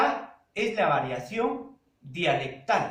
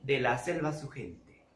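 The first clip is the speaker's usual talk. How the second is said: Amazonian word order; 7 semitones lower, 6 dB quieter than usual. Shown as a demonstration. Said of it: "El castellano amazónico".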